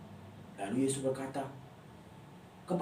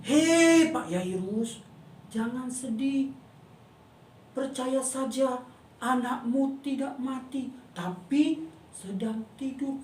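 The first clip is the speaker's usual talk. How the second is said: gentle reassurance; 3 semitones higher, slower than usual. Acted. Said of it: "Lalu Yesus berkata".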